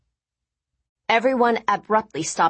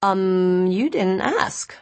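uncomfortable; 3 semitones higher, much slower than usual. Acted. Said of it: "Rachel said uncomfortably".

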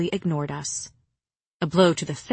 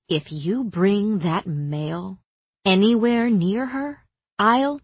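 rising threat; 2 semitones higher, slower than usual. Acted. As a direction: build the threat then break off. Nesta threatening, cut off.

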